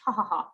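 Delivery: "ha, ha, ha" with an ordinary English h; three easy h syllables, "ha, ha, ha"; regular H sound. Shown as a demonstration. Teacher contrasting small ha with sharp ha, regular-H "ha". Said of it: "like a regular H".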